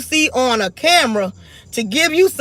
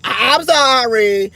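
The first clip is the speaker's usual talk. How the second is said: mock sweet apology. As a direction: play the pacified nice girl, half sarcastic. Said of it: "I will pipe down and be like".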